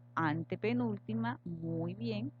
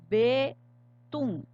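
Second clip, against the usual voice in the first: "Betún" called out much louder and higher, with "tún" hit hard; stress on tún; 4 semitones higher, 7 dB louder than usual. Shown as a demonstration. Teacher showing the written accent to the class, loud with "tún" stressed. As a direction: announce "Betún" and punch "tún". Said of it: "Aquí está la tilde".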